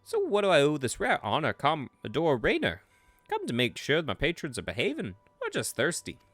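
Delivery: mock-welcome the commodore like a British rogue; British rogue accent. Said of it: "British rogue accent".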